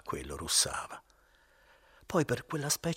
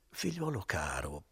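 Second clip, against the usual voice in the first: gentle. Acted. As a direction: coax him gently like a friend. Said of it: "con una voce e con un fare tutto gentile".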